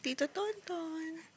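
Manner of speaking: soft, slow greeting; speaking for baby. Pretend. Parent coaching baby to greet uncle, baby-talk. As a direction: draw out the name gently for baby. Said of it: "Sabi mo".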